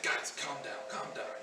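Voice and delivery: low, hushed, soothing reply; retold calming. Pastor calming panicked callers, low and hushed. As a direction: settle them down softly, voice dropped low. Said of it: "inside I was just freaking out".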